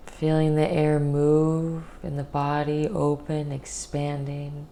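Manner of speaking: calm guided meditation voice with long pauses. Real, not acted.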